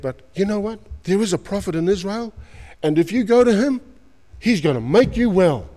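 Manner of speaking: put-on little girl voice.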